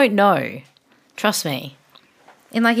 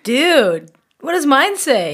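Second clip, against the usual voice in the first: higher, laid-back stoner movie voice; stoner dude voice; 6 semitones higher, 3 dB louder, slower than usual. Acted. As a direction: play the dopey dude from the comedy. Film quote call and response.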